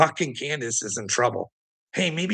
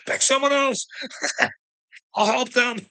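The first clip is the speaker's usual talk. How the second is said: much higher, whimpering plea; mocking whiny Jeremiah; 12 semitones higher than usual. Mocking Jeremiah begging God, high whiny voice. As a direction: whine like a crybaby prophet. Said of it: "crying and weeping like a little bitch".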